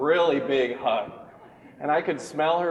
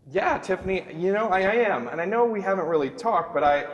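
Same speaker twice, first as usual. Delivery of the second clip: suave reply; 6 semitones higher than usual. Pretend. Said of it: "that's not at all what I said".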